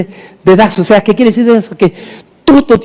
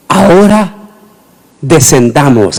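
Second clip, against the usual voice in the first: tender divine; 3 semitones lower, slower than usual. Acted. God speaking softly.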